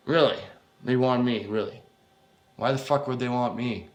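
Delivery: scoffing, disbelieving questions; dismissive, cocky disbelief; bullshit attitude. Acted. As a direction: sneer it back at him. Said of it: "with fucking bullshit fucking attitude".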